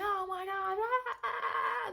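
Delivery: high, slow mock panic at the horse; half-hearted frightened wail; retold panic. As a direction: replay the fright, drawn out.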